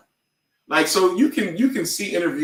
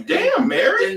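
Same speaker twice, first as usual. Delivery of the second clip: mock shout; 3 dB louder, slower than usual. Mock reaction to a singer.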